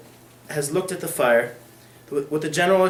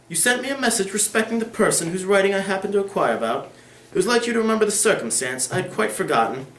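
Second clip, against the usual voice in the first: lightly voiced aristocratic lady, a touch higher; Lady Dedlock; 6 semitones higher than usual. Lady Dedlock addressing the lawyer, lightly voiced noblewoman.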